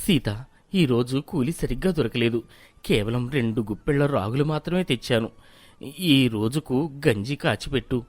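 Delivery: low, soft, weary husband; tired labourer. Acted. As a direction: come home worn out with bad news. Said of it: "అలసిపోయి ఇంటికి వస్తాడు".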